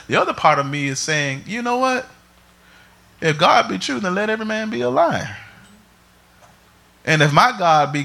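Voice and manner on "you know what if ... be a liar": inner voice. Retold or imitated. Inner voice quoting scripture.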